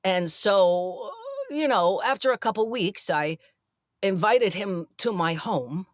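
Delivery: lightly imitated halting storyteller; hint at his halting delivery, with odd pauses; Chris Walken. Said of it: "I do a terrible Chris Walken".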